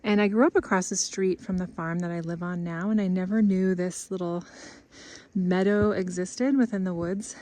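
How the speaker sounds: out of breath from walking; breathless after the walk. Real, not acted. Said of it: "I'm out of breath".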